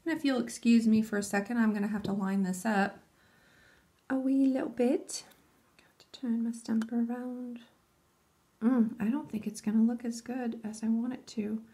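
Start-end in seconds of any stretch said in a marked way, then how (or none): 4.1-7.6 whisper. Real, not acted. Vlogger whispers to viewers while stamping. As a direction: whisper while you focus on the nail.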